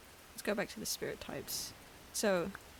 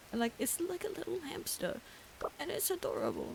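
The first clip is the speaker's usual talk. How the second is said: much higher cooing voice; high pet-talk coo; 9 semitones higher than usual. Real, not acted. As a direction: lift it high like talking to a pet. Cooing at a hamster spirit.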